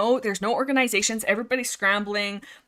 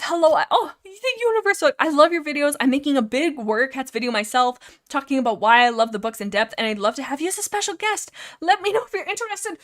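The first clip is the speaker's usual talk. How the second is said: eager fan message; 5 semitones higher, 4 dB louder than usual. Retold or imitated. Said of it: "ten dollars says".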